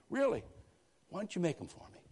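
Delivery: high, eager employer voice; eager rich lady. Retold or imitated. Rich employer asking the maid for curtains, high voice. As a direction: lift it high like a delighted lady.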